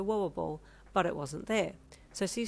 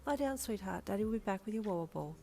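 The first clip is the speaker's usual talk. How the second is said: reassuring; 3 semitones higher, 4 dB quieter than usual. Acted. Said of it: "you reassured her".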